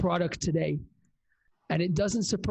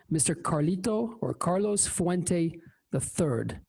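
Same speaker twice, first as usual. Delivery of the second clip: announcer. Real, not acted. Announcing guest name.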